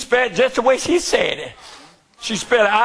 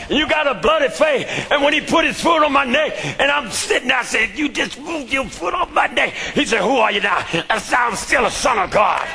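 full-force preaching; 3 semitones higher than usual. Acted. Preacher testifying to his church in full-force sermon cadence. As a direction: preach it like the climax of a revival.

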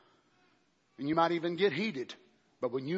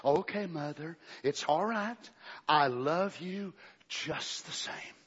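soft tender voice; 3 dB quieter, slower than usual. Retold or imitated. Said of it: "He says it real soft and changes the".

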